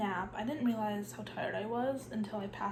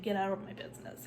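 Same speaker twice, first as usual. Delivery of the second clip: plain; 2 semitones lower, faster than usual. Retold or imitated. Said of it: "it's just like".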